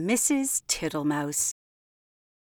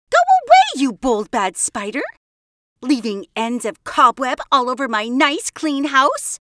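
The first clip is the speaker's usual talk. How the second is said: much higher, louder scolding shout; angry shout; 5 semitones higher, 8 dB louder than usual. Acted. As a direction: shoo the spider out furiously. Mrs Tittlemouse chases out spider.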